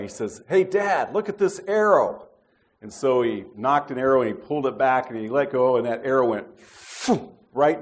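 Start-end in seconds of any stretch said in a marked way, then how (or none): 0.5-2.3 high-pitched mock yell to dad; excited kid's holler, lightly imitated; retold calling out. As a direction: imitate a boy calling out to his father. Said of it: "he yelled out at me".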